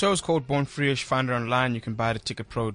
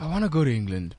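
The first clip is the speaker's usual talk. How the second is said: Glenn; 6 dB quieter, faster than usual. Retold or imitated. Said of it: "That's exactly what you sound like".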